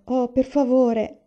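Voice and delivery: slow, high, drawn-out plea; pleading. A narrator's reading. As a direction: beg eagerly, stretching the words. Child begs father to play violin.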